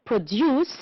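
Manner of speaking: produce as a verb, DUCE stressed; stress on second syllable. Shown as a demonstration. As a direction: lean on the end of produce. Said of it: "the verb".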